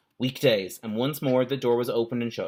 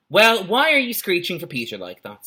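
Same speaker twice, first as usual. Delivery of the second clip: scolding mother; 6 semitones higher, 5 dB louder than usual. Acted.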